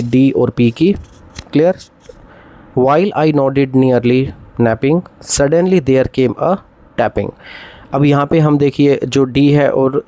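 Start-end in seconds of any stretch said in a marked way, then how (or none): 2.8-7.3 very slow, measured recital of the line; slow classroom recitation; slow poem reading. Shown as a demonstration. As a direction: read it out like a poem. Teacher reads Poe line slowly.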